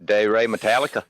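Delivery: put-on failed Australian accent, drifting country; Aussie accent. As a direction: try the title in an Aussie accent. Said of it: "that went way country".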